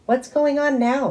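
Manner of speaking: high, loud exasperated question; exasperated dad. A narrator's reading. Dad walking in on the shouting, high and loud. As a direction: demand to know what's happening.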